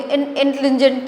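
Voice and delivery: "इंटेलिजेंट" squashed to in-tlin-jent; run-together mispronunciation. Shown as a demonstration. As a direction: stumble through "इंटेलिजेंट" without its middle syllable. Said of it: "तो बोल ही नहीं सकते".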